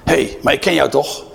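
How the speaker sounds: high, insistent voice pointing him out; accusing servant girl. Acted. Servant girl accusing Peter at the fire, high and pressing. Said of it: "Een dienstmeisje ziet hem en die zegt hem".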